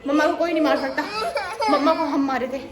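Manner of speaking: high and loud, hammed-up strong-woman boast; mock boasting. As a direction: brag like a pretend superhero to the kid. Boasting playfully to child. (बच्ची को चिढ़ाते हुए ऊँची नाटकीय शेखी)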